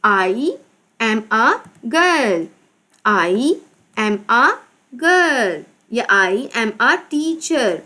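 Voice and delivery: very slow, separated words with pauses; slow dictation. Shown as a demonstration. Teacher dictating a sentence to pupils, slow and deliberate. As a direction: stretch each word for children writing along.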